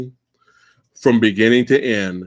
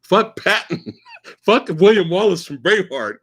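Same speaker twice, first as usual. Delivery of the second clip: mock Van Damme speech; 6 semitones higher than usual. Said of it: "you get the Van Damme speech".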